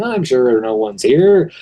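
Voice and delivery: slow, unsuspecting and carefree; naive, unaware of danger; innocent. Acted. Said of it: "innocently walks into the room saying".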